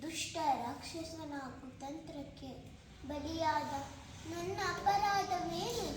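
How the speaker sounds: hurt, measured stage pleading; Sita. Acted. Sita questions her lord's doubt, wounded pleading. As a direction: plead solemnly, phrase by phrase. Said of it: "ಸೀತಾಮಾತೆಯ ಒಂದು ಪುಟ್ಟ ಪ್ರಾ-, ಪಾತ್ರವನ್ನು ಪ್ರದರ್ಶಿಸುತ್ತಿದ್ದೇನೆ".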